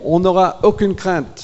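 high, loud, fervent yes to the Lord; eager crowd vow. Acted. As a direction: cry it out like a whole crowd swearing loyalty. Acting the people's eager vow.

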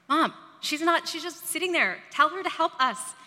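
acted-out whine of complaint to a mother; complaining sister. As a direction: imitate an exasperated sister appealing to mom. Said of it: "One of my sisters saying to my mother".

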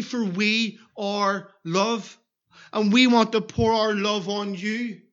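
a hint of a solemn, gentle father offering his son; voicing God. Preacher voices God offering Jesus to the sinner, slow and solemn. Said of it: "and he's saying".

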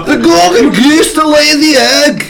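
exasperated shout. Acted. Shrek guessing for his forgetful customer, exasperated shout.

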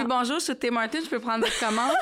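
cheery drive-thru order taker; drive thru speaker. Pretend. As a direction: take an order through the speaker. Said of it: "des lives où j'imite quelqu'un qui est au service à l'auto".

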